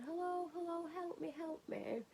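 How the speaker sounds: high, slow little cry of hello and help me; little voice calling for help. Retold or imitated. Woman retells a stuck drinker calling from between two cars in a high, slow little voice. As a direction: mimic a tiny stuck man calling out for help. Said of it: "this little voice going".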